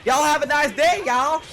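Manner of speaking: loud, high-pitched deep South drawl; deep South accent. Shown as a demonstration. Showing partner a very simple deep South accent, hammed-up Southern accent. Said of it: "you wanna do the deep South accent".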